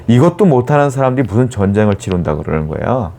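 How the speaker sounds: lightly acted haughty challenge; arrogant insult. Envoy belittling Judah's lack of riders, mild arrogant scorn. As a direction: belittle them with scornful questions. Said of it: "라고 모욕적인 말하며 교만한 발언들을".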